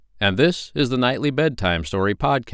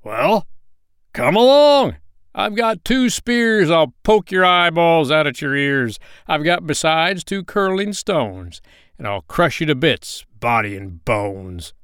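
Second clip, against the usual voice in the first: loud, raised challenge from the big goat; ugly hoarse goat; 6 semitones higher, 4 dB louder than usual. A narrator's reading. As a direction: defy the troll as a fierce goat. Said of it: "hoarse voice of his own".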